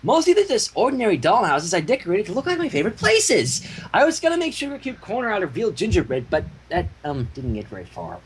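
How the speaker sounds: bubbly and a bit sheepish; Pinky voice. Acted.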